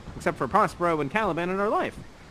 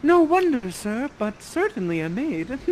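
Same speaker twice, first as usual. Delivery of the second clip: Miranda replying; 5 semitones higher than usual. Acted. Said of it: "Miranda's reply".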